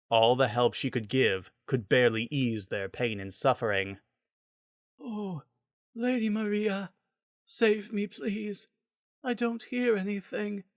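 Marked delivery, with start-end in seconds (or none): 5.0-10.6 high, thin, frantic pleading; desperate patient voice. A narrator's reading. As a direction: cry out to Lady Maria for help. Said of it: "It happened again".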